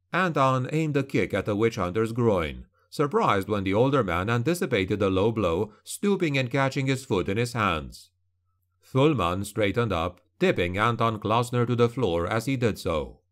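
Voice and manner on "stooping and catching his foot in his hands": ordinary delivery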